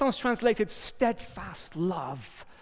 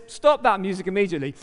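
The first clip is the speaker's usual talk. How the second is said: commanding voice; 2 semitones higher, 7 dB louder, much faster than usual. Acted. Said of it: "a voice says".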